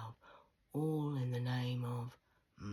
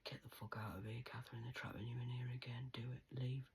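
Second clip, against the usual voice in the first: soft urgent whisper; hushed, unvoiced urging to leave; dog's whispered warning; 5 dB quieter than usual. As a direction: whisper it like a secret warning from the dog. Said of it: "'cause the dog told me".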